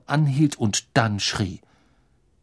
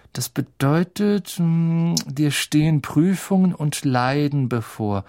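slightly raised, drawn-out schoolboy voice; Ron puzzling out omens; 4 semitones higher than usual. Acted. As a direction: read it out haltingly, working it out. Ron reads Harry's tea leaves. (Ron, leicht erhöht und grübelnd gedehnt)

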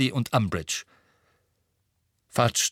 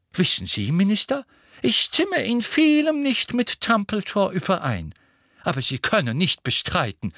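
lofty character voice, swooping high; Phineas Nigellus; 9 semitones higher, 3 dB louder than usual. A narrator's reading. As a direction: needle a minister with relish, pitch leaping up then dropping. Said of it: "die Stimme von Phineas Nigellus".

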